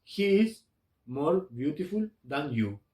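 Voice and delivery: slow, clear English example; slow model sentence. Shown as a demonstration. Teacher reads the English comparative to students, slowly. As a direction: read it slowly for learners. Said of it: "voy a decir".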